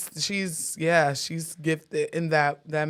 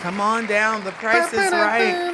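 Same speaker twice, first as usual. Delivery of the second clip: game show announcer; 3 semitones higher than usual. Pretend. Mimicking game show announcer's call.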